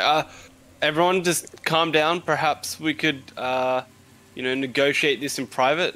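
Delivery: calming the mob. Acted. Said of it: "be like".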